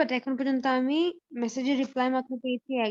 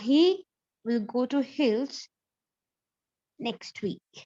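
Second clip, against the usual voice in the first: slow dictation; much slower than usual. Shown as a demonstration. Teacher repeating the test sentence for the whole class, slow dictation. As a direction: repeat it very slowly, in chunks. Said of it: "আবারও বলছি সবাইকে".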